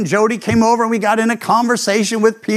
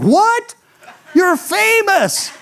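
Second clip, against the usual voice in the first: put-on much higher, astonished kid voice; amazed kid; 12 semitones higher, slower than usual. Boy amazed his pastor is on TV, high and stunned.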